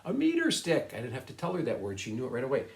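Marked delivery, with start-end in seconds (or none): 0.0-0.9 imitating the student. And he was like.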